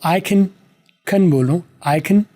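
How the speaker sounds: CAN reduced to a quick 'khn'; short positive can. Shown as a demonstration. Teacher models the positive form, short can. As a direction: say CAN short, vowel nearly gone. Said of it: "इसको short बोलेंगे".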